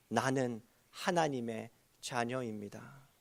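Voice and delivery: slow, low, soft declaration; hushed, measured statement of faith; solemn confession. Shown as a demonstration. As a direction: state it softly and slowly, as a confession. Models a confession for congregation.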